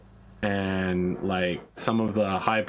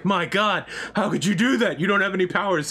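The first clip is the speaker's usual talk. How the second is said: high, hammed-up shock; mock astonishment; 8 semitones higher, 3 dB louder than usual. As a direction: gasp it out high in mock amazement. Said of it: "she's like".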